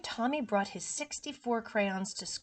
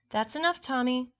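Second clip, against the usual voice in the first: stern scolding; 4 semitones higher, 4 dB louder than usual. Acted. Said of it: "Miss Landers said".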